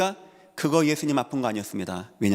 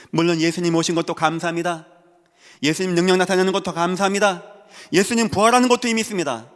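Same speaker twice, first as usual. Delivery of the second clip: each sentence higher and louder; rising preaching cadence; 6 semitones higher, 6 dB louder than usual. Real, not acted. Preacher listing what he thanks Jesus for, mounting fervour. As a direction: build point upon point to the congregation.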